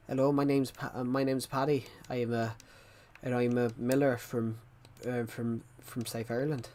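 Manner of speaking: lightly put-on Irish accent. Shown as a demonstration. Streamer showing off an accent to viewers, Irish accent. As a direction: introduce yourself in a mild Irish accent. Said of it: "I'll do my Irish accent".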